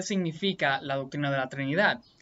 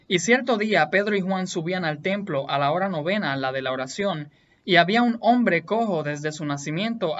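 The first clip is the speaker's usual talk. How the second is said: emphatic, louder Bible reading aloud; scripture reading; 3 dB louder than usual. A narrator's reading. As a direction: read the passage out with firm emphasis. Reads Bible passage aloud.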